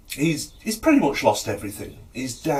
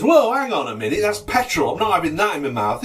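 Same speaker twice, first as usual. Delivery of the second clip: higher, urgent objection; alarmed protest; 6 semitones higher, 5 dB louder than usual. Acted. Patient spots the petrol trick, higher-pitched protest. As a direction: balk loudly at the medicine.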